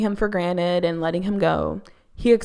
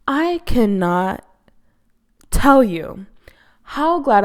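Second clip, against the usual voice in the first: slow breathy whisper for emphasis; emphatic whisper; 4 semitones higher, 5 dB louder, slower than usual. Real, not acted. Host telling viewers how relieved she is, emphatic whisper. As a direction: drop to a whisper to stress how glad. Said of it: "emphatic aside to viewers".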